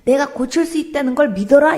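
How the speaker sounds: preacher voicing Jesus, commanding; commanding proclamation. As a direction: declare it like Jesus.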